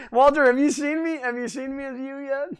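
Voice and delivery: playful Southern country accent. Shown as a demonstration. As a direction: tease Walter in a put-on Southern twang. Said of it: "my country three D accent".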